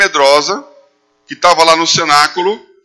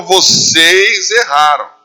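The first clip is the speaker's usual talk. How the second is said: bold preacher Peter; 2 semitones higher, 3 dB louder, much slower than usual. Acted. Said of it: "o Pedro levantou e falou".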